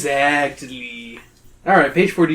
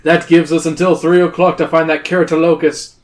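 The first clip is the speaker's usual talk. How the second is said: teacher voice; 2 semitones higher, 4 dB louder than usual. Acted. S0 voices teacher addressing group.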